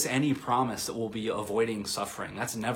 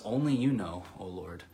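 defeated, sad. Acted. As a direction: let the words sink away in mild defeat. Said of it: "you can hear that defeat in his voice".

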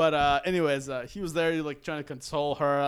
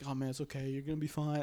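soft, reassuring murmur; quiet imitation of soothing; consoling; 8 dB quieter, faster than usual. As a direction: gently comfort someone who is upset. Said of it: "like, consoling her".

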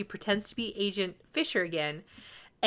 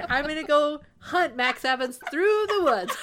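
lightly voiced oblivious dad, pitched up; hammed-up rattling off of a dad's excuses; mocking dad; 6 semitones higher, 3 dB louder, faster than usual. Spoofing the sheriff talking to his son Kyle, mocking. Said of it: "it's just like".

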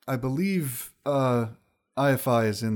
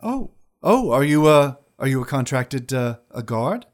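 high wizard lady voice; 4 semitones higher, 6 dB louder than usual. Acted. GM voicing wizard.

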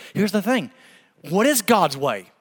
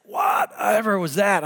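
startled cry; 2 semitones higher, slower than usual. Retold or imitated. Sudden back pain, retold.

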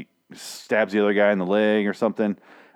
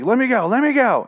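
much higher, louder mock yell of let me go; imitating a yell; 13 semitones higher, 5 dB louder than usual. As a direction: ham up an actress yelling to be released. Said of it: "she's yelling".

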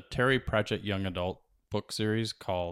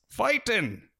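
much higher, loud crowd cry; Feegle crowd shout; 14 semitones higher, 4 dB louder than usual. A narrator's reading. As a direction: wee men roaring. Crowd answer.

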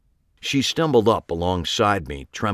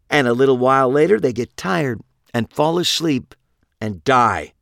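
Pete, cold gloating killer; 6 semitones higher, 4 dB louder than usual. A narrator's reading. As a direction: describe the end with cruel glee. Pete describes their death.

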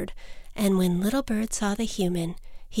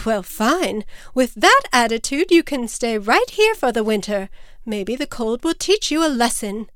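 raised, indignant mother; huffy scolding; 3 semitones higher, 4 dB louder than usual. Acted. Mother leaves her defiant chick for winter, huffy and scolding. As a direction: wash your hands of the child, emphatically.

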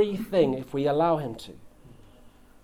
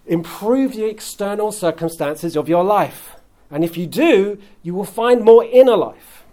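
building from raised to loud, near shouting; mock scream from the world; 4 semitones higher, 6 dB louder than usual. Preacher voicing the world's loud demands, building to a shout. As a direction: cry it out like an advertising world pushing you. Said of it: "which screams to us".

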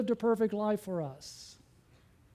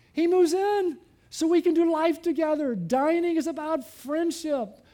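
raised, louder preacher's voice; forceful preaching; 6 semitones higher, 5 dB louder than usual. Real, not acted. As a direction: drive it home to the congregation.

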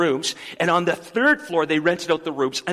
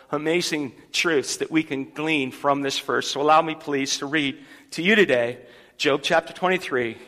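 ordinary delivery

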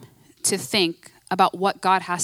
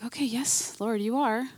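softer, humble reply to God; quiet answer; 7 dB quieter than usual. Retold or imitated. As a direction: answer meekly, half under your breath. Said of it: "I'm like".

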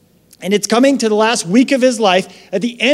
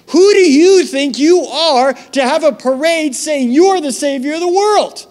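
indignant leaders; 5 semitones higher than usual. Retold or imitated. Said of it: "and they say".

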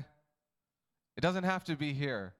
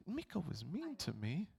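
whiny complaint; 3 semitones higher, 8 dB quieter than usual. Pretend. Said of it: "Don't go".

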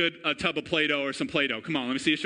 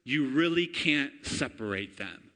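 normal talking voice

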